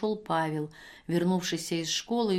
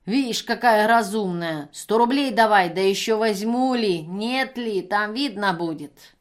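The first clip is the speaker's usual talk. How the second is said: put-on much louder, slow, brazen drunk woman; bully her for money; drunken demand; 2 semitones higher, 7 dB louder than usual. Пьяная женщина требует денег. (громко, нагло, по-пьяному требуя)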